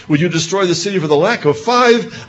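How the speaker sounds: high, coaxing bargain; Abraham bargaining. Acted. Abraham haggling with God over the city, in a high coaxing voice. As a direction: nudge God down gently.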